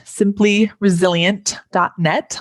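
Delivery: "simply resilient dot net" said slowly, word by word. Shown as a demonstration. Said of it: "I'll say that a little slower".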